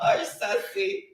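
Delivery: slow whispered hush, voice dropped to breath; hushed shush. Real, not acted. Shushing during live stream.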